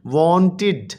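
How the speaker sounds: वांटेड in two beats, ending in a clear "tid"; ending pronounced id. Shown as a demonstration. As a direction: say वांटेड as वॉन... टिड. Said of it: "इड की आवाज़ दे रहा है". (वांटेड के आख़िर में साफ़ "इड" की आवाज़)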